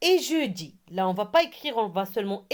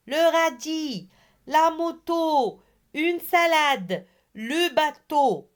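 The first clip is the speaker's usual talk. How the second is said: raised pitch, each item projected evenly; reading out loud; 5 semitones higher than usual. Shown as a demonstration. Teacher models repeating the words aloud, higher projected voice. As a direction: call out the word list for repeating. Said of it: "on doit répéter à haute voix".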